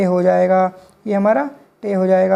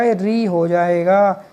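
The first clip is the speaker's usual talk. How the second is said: slowly, with weight on री; deliberate classroom answer; slow emphatic answer; much slower than usual. Shown as a demonstration. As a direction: spell out the result for the class. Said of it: "तो क्या हो जाएगा?".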